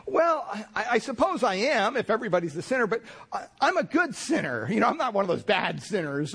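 high, self-satisfied protest; smug self-justifying man. Retold or imitated. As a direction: insist you're one of the good ones. Man claims to be good sinner.

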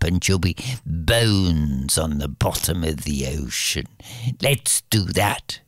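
lightly voiced villainous queen mother; scheming mother. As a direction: plot the murder in a low, sly voice. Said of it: "the mother turns to the maid and says".

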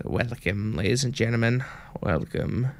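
lightly voiced vampire host. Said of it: "This is supposed to be a vampire voice".

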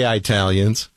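Italians said as "eye-TAL-yuns"; colloquial mispronunciation. Shown as a demonstration. Host countering the caller, Italians as "eye-TAL-yuns". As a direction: open Italians with a long "eye" sound. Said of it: "some people say It".

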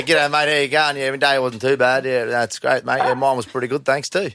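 easy run-together Aussie small talk; casual exchange in broad Australian accent. Shown as a demonstration. Host demonstrating a greeting for the American caller, broad Australian accent. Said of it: "when you say".

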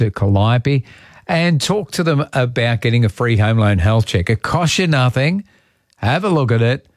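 unhurried live radio sponsor read. Acted. Radio host telling listeners about a community bank, live ad read. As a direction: talk listeners through it, stretching key phrases.

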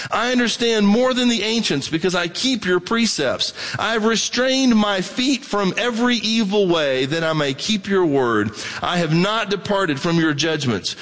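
measured reading of a psalm aloud; steady pulpit reading of scripture. Acted. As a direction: read the verses as David's own testimony. Reads long psalm passage.

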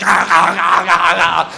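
repeated chomping "ah" noises; imitated sharks chomping. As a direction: mimic a pack of snapping sharks. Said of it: "thirty sharks just going".

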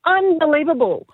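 high-pitched, gushing thanks; stunned delight, overflowing with gratitude; overjoyed. Real, not acted. Winner thanking the hosts for the prize, overjoyed. Contestant has just won the money.

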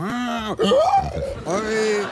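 high yelping hiccup; a sudden staged hiccup cry; imitated violent hiccup. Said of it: "de repente taladro".

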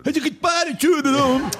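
high, hammed-up Mexican voice; mock Mexican singer. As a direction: ham up a Mexican crooner. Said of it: "Que cante Jaime Marrón".

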